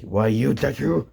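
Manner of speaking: mock-angry yell at a rival; indignant outburst. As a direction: cry out in outrage. Bully yells at escaping rival.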